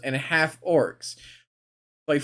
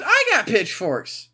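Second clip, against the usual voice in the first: rallying cry; 6 semitones higher, 3 dB louder, slower than usual. Real, not acted. Playful mock rally.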